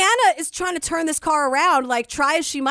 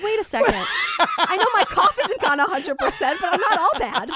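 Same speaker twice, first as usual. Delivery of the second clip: laughing protest; 5 semitones higher than usual. Retold or imitated. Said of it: "I was like".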